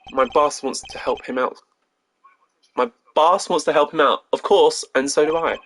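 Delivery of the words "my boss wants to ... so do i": slightly raised, spirited delivery; upbeat, emphatic young lawyer; energetic rookie. Acted. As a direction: say it with eager conviction. Rereads line more energetically as Apollo.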